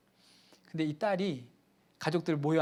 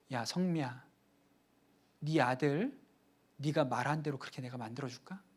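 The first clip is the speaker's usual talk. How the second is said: quiet voice of God; 3 semitones lower, 7 dB quieter than usual. Retold or imitated. God speaks to the mother.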